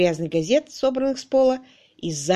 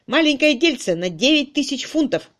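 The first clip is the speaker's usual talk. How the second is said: raised, emphatic revelation; emphatic announcement; 6 semitones higher, 4 dB louder than usual. A narrator's reading. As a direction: announce the sum with force. Man announces the lawsuit's sum.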